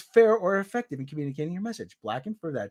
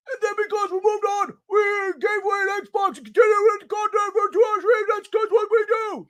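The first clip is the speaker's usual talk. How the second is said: mocking Black's voice; 13 semitones higher than usual. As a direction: parody her as an indignant squealing woman. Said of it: "That's how she sounds".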